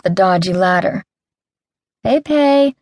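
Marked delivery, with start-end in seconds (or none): 2.0-2.7 high sing-song call to a pet; sing-song coaxing. Acted. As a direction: coax the monkey sweetly, up high. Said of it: "I coaxed in a sing-song voice".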